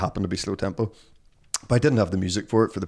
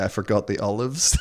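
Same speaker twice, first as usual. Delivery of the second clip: mock Spanish accent. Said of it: "I had to do a Spanish accent".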